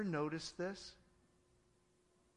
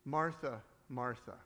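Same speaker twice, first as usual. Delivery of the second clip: tender; 6 semitones lower than usual. Acted. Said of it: "It's tender".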